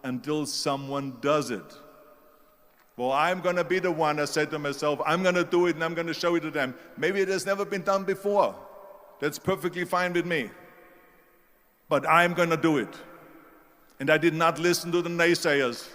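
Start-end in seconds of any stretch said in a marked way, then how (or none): 3.0-4.2 firm, emphatic, a bit louder; retold determined vow. Speaker recalls telling himself he will do it, determined. 5.0-12.9 loud, punchy self-belief, recounted; retold determined vow. Speaker recalls vowing to prove doubters wrong, determined.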